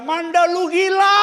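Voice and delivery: high, drawn-out panicked yell; loud hammed-up shriek; screaming. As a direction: reenact screaming at the wife mid-drop. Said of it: "saya teriak".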